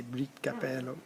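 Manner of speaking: Brit Capello, the O of Brito dropped; clipped Brito. Shown as a demonstration. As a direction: Brit Capello said the local way, Brito cut short. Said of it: "they say Brit Capello".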